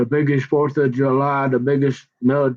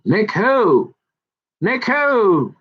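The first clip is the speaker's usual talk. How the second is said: high, swooping mimicked question; imitating her catchphrase; 8 semitones higher, much slower than usual. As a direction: mimic her up high, falling on the last word. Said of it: "she was always like".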